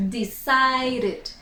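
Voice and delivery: "Decided" with the final -ed sounded as "id"; "Decided", the E of -ed pronounced; extra-syllable ending. Shown as a demonstration. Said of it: "that becomes it".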